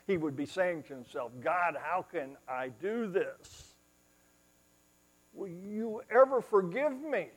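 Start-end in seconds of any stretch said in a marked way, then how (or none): 1.4-7.3 anguished prayer. Acted. Peter's guilty prayer.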